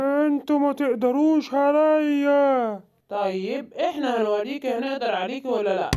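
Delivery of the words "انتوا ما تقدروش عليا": slow menacing gorilla. Acted. Gorilla defies heroes.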